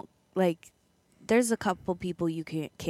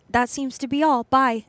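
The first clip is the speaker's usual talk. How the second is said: curt dismissal; 6 semitones higher, 5 dB louder than usual. Retold or imitated. Mocking agent's curt sign-off.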